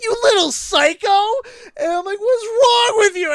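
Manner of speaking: high, loud mocking laugh-shout; laughing taunt. Egging the kid on in front of the principal, laughing. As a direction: taunt him while laughing.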